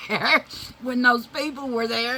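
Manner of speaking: words breaking up in laughter, high and loud; can barely get it out for laughing; laughing hard. Real, not acted. Laughing hard while telling.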